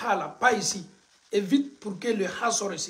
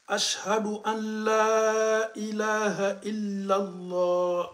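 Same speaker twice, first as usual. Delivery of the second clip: adhan recitation. Shown as a demonstration. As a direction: chant it like a muezzin.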